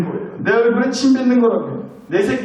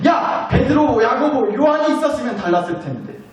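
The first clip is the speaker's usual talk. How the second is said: higher-pitched hypothetical telling-off; mock reproach; 5 semitones higher than usual. Imagined Jesus comparing the nine with Peter, mock reproach. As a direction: call out, then complain in raised pitch. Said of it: "막 비교하시면서".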